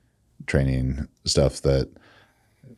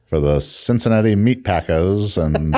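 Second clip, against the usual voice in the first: put-on old-timey radio announcer; slow, drawn-out ballpark call; 1950s narrator; 5 semitones higher, 3 dB louder, slower than usual. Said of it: "why did they stop talking like that".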